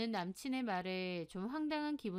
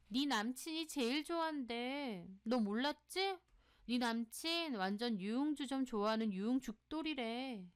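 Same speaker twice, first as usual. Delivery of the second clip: scandalized gossipy friend; 3 semitones higher than usual. Acted. Friend reports the boyfriend's nightlife to her, scandalized. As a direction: pass on gossip with a touch of shock.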